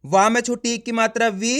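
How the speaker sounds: teacher sounding out "वी" with a rising end; spelling out. Shown as a demonstration. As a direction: recite letter and vowel sign, then land on "वी". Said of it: "देखो किस तरीके से है".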